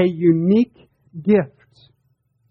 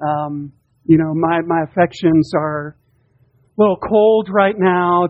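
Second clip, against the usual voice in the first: lightly voiced hesitant husband, a touch lower; mock hesitant excuse; 4 semitones lower than usual. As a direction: hem and haw like a husband dodging a simple reply. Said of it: "preacher is not saying that you sit there and go".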